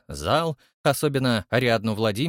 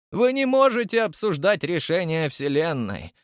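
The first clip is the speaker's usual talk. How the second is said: higher-pitched stern rebuke; 6 semitones higher than usual. A narrator's reading. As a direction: forbid any argument, strictly. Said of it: "строго вымолвила". (строго, не допуская возражений)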